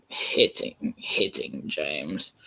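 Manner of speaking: soft low whisper. A narrator's reading. Narrator whispering about James, quiet. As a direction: hush it down.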